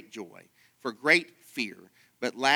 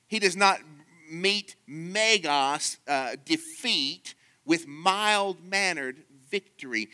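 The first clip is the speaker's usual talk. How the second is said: louder and higher, pressing each word; rising to a preach; 4 semitones higher, 4 dB louder than usual. Acted. Preacher to his congregation, pushing the point louder and higher. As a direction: hammer the contrast home like a preacher.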